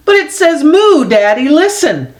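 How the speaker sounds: put-on a small boy begging dad to listen; childlike insisting. Freddie insists to father.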